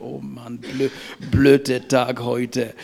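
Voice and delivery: mock moaning about the day, slow; a sleepy, grumpy complaint on getting up; lightly acted morning grumble; grumbling. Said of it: "aufhören zu meckern".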